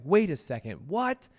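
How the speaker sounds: sudden alarmed double take; shocked disbelief. Retold or imitated. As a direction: pitch shoots up on what. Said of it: "it was like".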